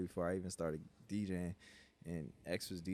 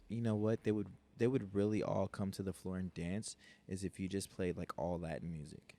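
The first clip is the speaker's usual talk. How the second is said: put-on Valley girl voice. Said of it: "you sound like a Valley girl".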